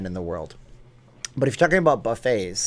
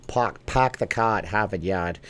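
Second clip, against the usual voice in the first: put-on half-hearted Boston accent; 3 semitones lower, slower than usual. Streamer obliging a viewer's request, tentative Boston accent. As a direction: try a reluctant Boston accent, r's dropped. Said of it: "Do a Boston accent".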